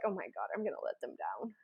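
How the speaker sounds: soft, fast, anxious murmur; worried murmur. Retold or imitated. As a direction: fret under your breath. Inner worry quoted.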